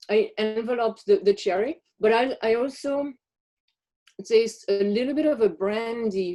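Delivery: chewing while describing flavors; mouth full. Real, not acted. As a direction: talk through a mouthful of chocolate. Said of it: "I have to talk with my mouth full".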